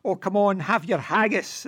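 lightly hammed-up fake Scottish accent, teasing; cod Scottish accent. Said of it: "puts on a cod Scottish accent".

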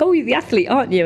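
high, eager imitation of a fan. Man at petrol station recognising the athlete, eager and high. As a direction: chirp it like a starstruck stranger.

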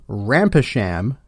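"Rampersham" sounded out as RAM-pe-sham; pronounced as spelled. Shown as a demonstration. Mocking British place names, "Rampersham" read as spelled, RAM-pe-sham. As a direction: say "Rampersham" in three parts, as written. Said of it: "whose name is spelled".

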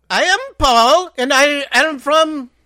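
mock Italian tourist voice, slow; hammed-up fake Italian; fake Italian accent. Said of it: "talking in Italian".

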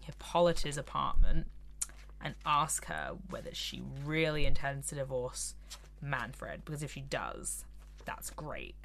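quiet, low scheming voice; low muttering scheme. Retold or imitated.

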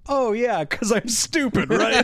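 high, chipper self-aware voice; bubbly mock airhead; dumb girl. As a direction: cheerfully call yourself stupid. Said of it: "she goes".

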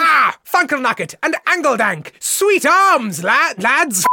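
high, loud cheering hail; hammed-up lad greeting. Host greeting lads with many arms, hammed-up holler.

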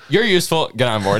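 mock captor voice. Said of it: "It's like".

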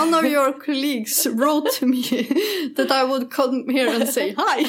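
put-on slow, halting, heavy Swedish-accented English, breaking into a laugh; broken English. Asked to show how she sounded, she does her clumsy Swedish English. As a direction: imitate your own clumsy Swedish English. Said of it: "Kan du inte berätta hur det lät?".

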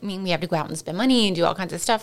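unsteady, wavering delivery; shaky voice. Real, not acted. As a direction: voice trembling with emotion. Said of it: "I know I have a really shaky voice".

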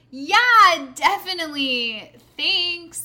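high, loud, fake-keen agreement; forced enthusiasm. Storyteller replaying her goodbye to the man, falsely enthusiastic. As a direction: overdo the polite goodbye.

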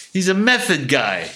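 imitating Don Rickles. Rickles mocking him to Landis.

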